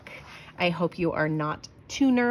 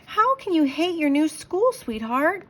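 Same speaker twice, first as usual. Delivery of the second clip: much higher, louder teasing question; amused dad; 10 semitones higher, 5 dB louder than usual. Acted. Dad amused by Sarah's complaint, teasing. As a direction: tease her gently, half laughing.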